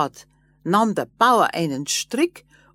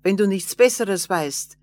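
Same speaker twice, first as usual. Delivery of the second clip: louder, higher mocking farmer; mocking laugh-in-voice; 4 semitones higher, 6 dB louder than usual. A narrator's reading. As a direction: brush the dwarf off with a scoff. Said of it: "Da lachte der Bauer und sagte".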